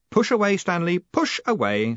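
cheerful encouragement, lifted at the start. A narrator's reading. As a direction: cheerily urge him to go ahead. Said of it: "said Moist cheerfully".

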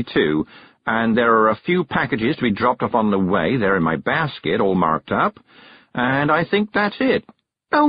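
lightly voiced, fluttery older witch; a hint of a scatterbrained kind old lady; fussy kindly witch. Miss Level's fussy list.

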